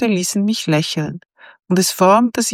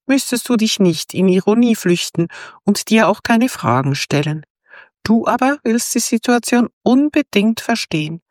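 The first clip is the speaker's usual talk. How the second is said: a touch higher, patient wise little being; lightly voiced little creature; 4 semitones higher than usual. The little creature explains lightness to the narrator, mildly raised voice. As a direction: gently lecture like a small magical creature, lightly.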